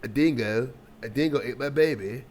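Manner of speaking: amateur attempt at an Australian accent; bad Australian accent. Reactor mimicking the Australian host, bad Australian accent. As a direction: try a lilting Australian accent, not very well. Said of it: "I'm not good at accents".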